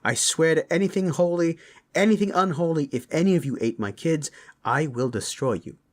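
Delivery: heated interrogation building into an oath; father demanding answers, quick to threaten; angry threat. Acted. Father threatens suspected takers of kids.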